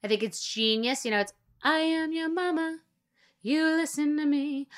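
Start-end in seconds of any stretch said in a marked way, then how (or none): 1.6-4.7 higher, slow bossy mama voice; bossy mom voice. Retold or imitated. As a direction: lay down the law like a pushy mother, slowly. Kris Jenner mom role in video.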